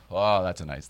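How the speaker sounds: normal talking voice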